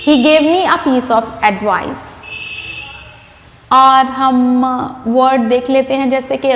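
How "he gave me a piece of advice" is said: very slow, every word laid out; slow model sentence. Shown as a demonstration. Teacher modelling the correct phrase, very slowly. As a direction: dictate it slowly so students can copy. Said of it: "a piece of advice बोलना है".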